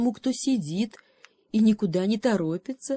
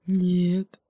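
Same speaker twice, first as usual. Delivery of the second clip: babbled; 4 dB louder than usual. Acted. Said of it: "пролепетал медведь заплетающимся голосом".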